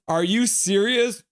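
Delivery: slow, high-pitched disbelief; incredulous. Retold or imitated. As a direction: ask it in drawn-out disbelief. Disbelief at the score.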